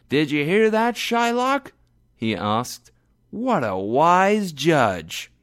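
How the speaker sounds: high, loud, mocking voice; gloating Graziano. A narrator's reading. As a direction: taunt Shylock loudly and high.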